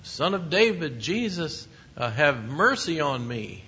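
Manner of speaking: a beggar calling out to Jesus, pleading cry; pleading cry for mercy. Retold or imitated. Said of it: "whenever someone cried out to Jesus".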